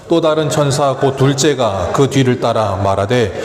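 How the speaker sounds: slow, measured Bible reading voice; scripture reading. Acted. Pastor reading Revelation to the congregation, slow solemn reading. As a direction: read the verses slowly and solemnly. Reads scripture aloud slowly.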